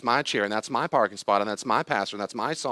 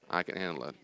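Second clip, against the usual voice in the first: calm self-talk; 3 semitones lower, 5 dB quieter, faster than usual. Shown as a demonstration. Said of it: "say it with me".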